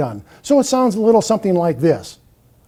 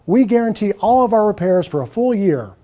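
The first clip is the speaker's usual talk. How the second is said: on-hold ad read. Shown as a demonstration. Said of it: "Here's an on-hold message".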